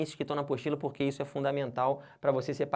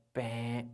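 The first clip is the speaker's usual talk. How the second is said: low drawn-out mock buzzer noise; wrong-answer buzzer; 4 semitones lower, 6 dB quieter than usual. Teacher buzzing out a wrong verb form, mock buzzer. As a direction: imitate a game-show error buzzer, low and held.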